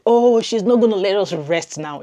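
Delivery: lightly voiced weary viewers complaining; mock viewer groan. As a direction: play the tired audience, half-joking. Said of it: "I know you guys will be like".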